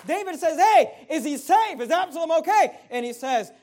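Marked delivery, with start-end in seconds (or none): 0.6-2.8 higher, much louder urgent questioning; anxious urgent question. Acted. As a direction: call out like a worried father. David asks anxiously.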